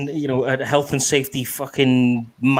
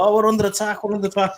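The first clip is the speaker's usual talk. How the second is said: mock panic; 9 semitones higher than usual. Pilot panicking, retold as a joke.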